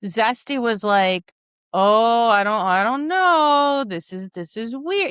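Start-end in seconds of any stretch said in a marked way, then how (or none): 1.7-5.1 wavering, uncertain "oh, I don't know"; unsure dog. Acted. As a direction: voice a dog hesitating, unsure of its handler. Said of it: "He gets a little unsure".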